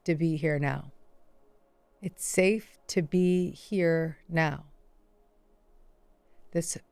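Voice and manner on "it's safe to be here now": very slow, drawn-out affirmation. Shown as a demonstration. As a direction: stretch each word, breathing slowly. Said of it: "Breathe slowly".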